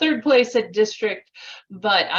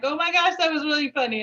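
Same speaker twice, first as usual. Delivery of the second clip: high-pitched retold delight; light, high self-quote; amused gushing; 5 semitones higher, faster than usual. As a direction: lift the pitch, gushing at a joke. Quotes own amused reaction.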